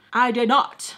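voiceless under-breath whisper; whispered denial. Real, not acted. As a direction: whisper it to yourself. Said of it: "whispered aside".

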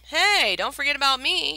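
loud call from across the room; mock-hurt call from the back. A narrator's reading. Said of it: "Ryuji called out from behind him".

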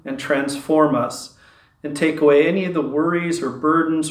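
measured, even opening prayer; spoken prayer. Real, not acted. Leader praying to the Heavenly Father for healing, spoken prayer. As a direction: pray aloud steadily, easing down at the close.

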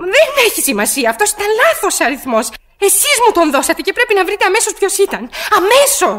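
panicked demand ending in a sharp order; frantic insistence. Acted. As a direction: push the operator hard, rising panic. Frantic woman demanding operator act.

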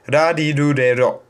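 "Rarirurero" with quick tongue taps, nearly D; each R of "Rarirurero" a light tap on the palate; "Rarirurero" flapped almost like "dadidudedo"; Japanese flap R. Shown as a demonstration. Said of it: "Die Zunge geht oben so für einen ganz kleinen Moment an den Gaumen".

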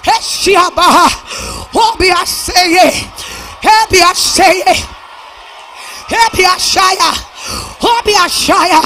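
fervent revival whoop, commanding the congregation; full-force preaching. Real, not acted. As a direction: punch each short phrase, gasping "uh" after it. Preaching builds to shouted prophecy.

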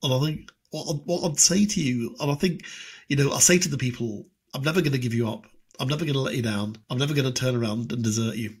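hint of a earnest politician's cadence; earnest speech voice, barely shifted; Ed Miliband impression. Politician addressing the people, lightly voiced earnest. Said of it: "what you get is Ed Miliband".

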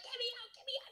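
high whispered plea to escape; frantic whispered heart. Pretend. Imagining Riley's heart begging to flee, frantic whisper. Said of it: "what his heart sounds like".

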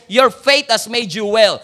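loud, slow, stretched blessing; loud proclamation. Acted. Pastor declaring healing over the congregation, loud and slow. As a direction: proclaim it out to the crowd.

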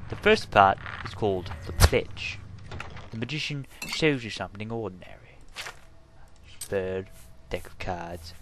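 lightly done Cockney-ish Caine voice; Michael Caine impression. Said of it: "doesn't sound like a Bristol accent".

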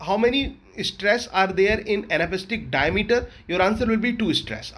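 slow, measured teacher's dictation; teacher dictating the exam answer. Shown as a demonstration. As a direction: spell the exam answer out slowly. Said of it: "dictating exam answer".

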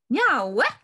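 loud call with the last syllable stretched out; husband shouts from the table after his meal, loud and drawn out; shouted. Acted. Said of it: "he shouted".

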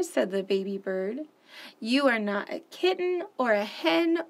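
animated picture-book read-aloud; expressive children's story narration. Acted. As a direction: read it like story time for little ones.

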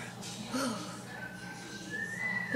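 soft, long acted sigh. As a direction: let out a long teacherly sigh. Teacher fed up with pupils.

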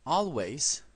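always as /olwejs/, long final s; English word said clearly. Shown as a demonstration. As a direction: model English always slowly. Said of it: "Por ejemplo".

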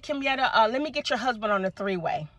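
imitating a subdued, downcast realtor; sad realtor. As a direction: softly deliver reluctant news, mock-sad. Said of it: "sounding sad".

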